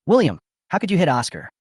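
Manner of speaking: a read-aloud angry rebuke, voiced with some heat; angry accusation. A narrator's reading. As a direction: tear into him for hitting Oscar. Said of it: "ran over angrily".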